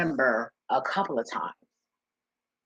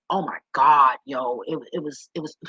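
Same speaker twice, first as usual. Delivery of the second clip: emotional; 4 dB louder than usual. Real, not acted. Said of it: "I'm sorry to get a little emotional".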